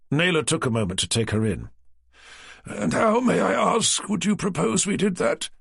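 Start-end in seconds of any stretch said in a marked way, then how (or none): 2.7-5.5 higher, arch and condescending; eyeing her up skeptically; haughty publisher. A narrator's reading. Naylor's haughty question.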